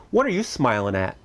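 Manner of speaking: lightly voiced stern ship's captain; a hint of mock-gruff authority; Captain Bligh. Dad challenging his grinning son, mock stern. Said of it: "In my best Captain Bligh voice".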